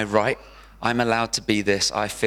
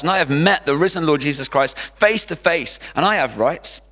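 mock rant, louder and raised; Paul ranting to the Corinthians, louder; 5 semitones higher, 3 dB louder than usual. Paul the apostle defending himself to the church, a ranting plea. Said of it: "has this whole rant".

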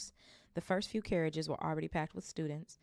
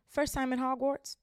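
higher, louder, friendly question; cheerful mother; 9 semitones higher, 5 dB louder than usual. Acted. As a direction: welcome the new boy. Kind mother asks Harry.

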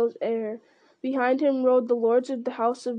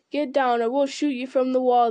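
raised threatening orc call, not a full yell; orcs crying out; 4 dB louder than usual. Acted. Orcs threatening to shoot Aragorn down, raised threatening cry. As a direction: warn him off like an archer on the wall. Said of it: "they cried".

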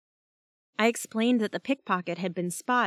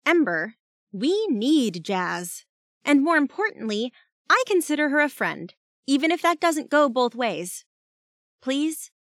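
high, louder earnest pleading; urgent plea; 6 semitones higher, 4 dB louder than usual. A narrator's reading. Teammate begging Ember to spare Jazz, pleading. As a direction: appeal earnestly, pitched well up. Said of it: "I spoke up quickly".

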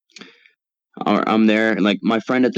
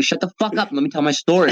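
quick, raised, annoyed cut-in; fast and higher to shut down the interruptions; irritated snap; 7 semitones higher, faster than usual. Real, not acted. Telling the group chat to let him finish, fast and annoyed. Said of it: "I'm getting mad".

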